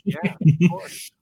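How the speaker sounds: slow, loud, drawn-out "of course"; exaggerated agreement. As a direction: overplay the agreement.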